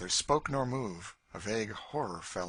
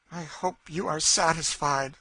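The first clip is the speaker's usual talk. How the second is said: higher, calm and cutting; a hint of an avenging spirit; cold Cassie; 8 semitones higher, 7 dB louder than usual. A narrator's reading. Cassie returns cold and calm to the frightened Legree.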